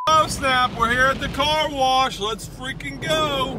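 high, loud hype; pumped up and shouting; excited. Real, not acted. Arriving at car wash.

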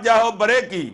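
ordinary delivery

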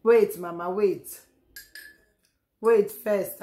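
loud call to wait. Real, not acted. To Mama waiting outside the door, loud calls to wait. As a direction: shout through the door for her to hold on.

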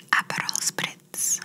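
slow close whisper right into the ear. Shown as a demonstration. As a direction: lean in and breathe it into the ear, slowly. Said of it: "I'm going to whisper something in your ear".

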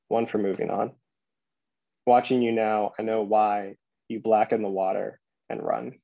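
measured poem recital with deliberate pauses; poetry reading. Acted. Poet reading "To the Octopus" to a library audience, measured recital. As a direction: read it line by line, letting each image land.

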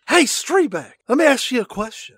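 mock-serious interrogation voice; funny voice. Cohost grills Streebek about hot dogs in a mock tough-guy voice. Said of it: "saying chili dog in that voice".

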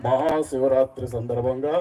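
a light impression of a politician praising the event; Chandrababu Naidu mimicry. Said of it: "Chandrababu Naidu గారు వస్తున్నారు".

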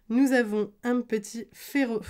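slipping into a southern French accent; real, unplanned lilt of southern France. Real, not acted. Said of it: "je recommence à faire mon accent du sud".

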